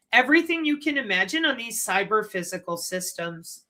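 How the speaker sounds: chewing while talking; mouth full. Real, not acted. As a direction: talk through something in the mouth. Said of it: "I'm chewing on my cat hair".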